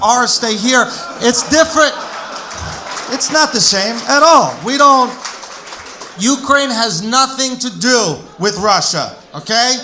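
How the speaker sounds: put-on loud, heavy Russian accent rant; mock Russian rant. Comic defending his country in a loud Russian accent. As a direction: bark it like an angry Russian uncle.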